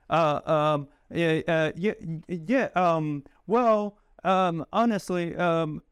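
hesitant stammering with fillers; stuttering. Shown as a demonstration. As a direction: stumble through the fillers. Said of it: "I stutter too much".

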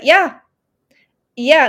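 bursting with yes; excited yes. Retold or imitated. She agrees with her inner voice, excited. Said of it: "I just was like".

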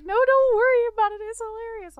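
high, quick, breezy cashier; cheerful cashier voice. Retold or imitated. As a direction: brush it off brightly. Cashier quoted laughing it off.

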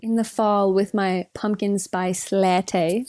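put-on slow, teasing American accent; playful put-on American drawl; mock American accent. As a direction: draw it out like an American cliché. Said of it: "something so American about saying".

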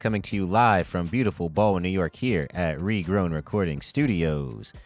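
big podcast host intro, building each name; hype host intro. Acted. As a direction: announce the crew like a showman.

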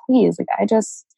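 tearful, pleading, voice catching on happy; getting emotional. Real, not acted. Guest recalling her darkest time, tearfully pleading to be happy. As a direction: voice welling up with real tears on the plea. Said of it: "gosh, I'm getting emotional now".

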